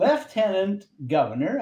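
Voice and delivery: "Lieutenant" said carefully as LEF-tenant; careful British "Lieutenant", starting LEF; British pronunciation. Shown as a demonstration. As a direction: pronounce "Lieutenant" deliberately with an F. Deliberate British pronunciation after the discussion.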